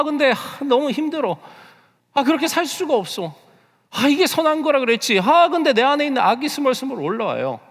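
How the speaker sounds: high, loud voice of a believer torn inside; inner struggle. Acted. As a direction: act out anguished protests, one after another. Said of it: "내 삶 가운데 늘 스트러글링이". (갈등하며 괴로워하는 높은 목소리)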